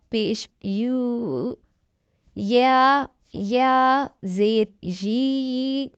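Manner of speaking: slow, stretched drill voice, each syllable held long; letter by letter, drawn out and distinct; slow spelling recitation. Shown as a demonstration. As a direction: spell it out slowly for a child learning to read.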